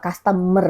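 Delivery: "customer" with a weak schwa middle, KAS-te-mer; corrected pronunciation. Shown as a demonstration. Vlogger correcting the viral shopper, corrected pronunciation. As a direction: say "customer" as kas-tuh-muh, middle vowel reduced. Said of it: "bukan customer".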